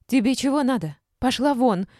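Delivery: high, loud hostile shouting; angry yell. A narrator's reading. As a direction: yell at an unwelcome visitor. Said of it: "и заорала".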